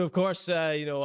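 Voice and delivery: ordinary talk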